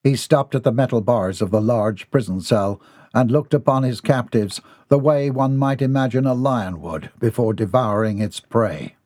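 ordinary delivery

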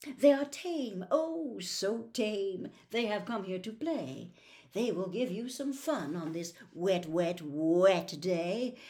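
slow, unbothered cat voice; snooty bored cat. Acted. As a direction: drawl it out, unimpressed.

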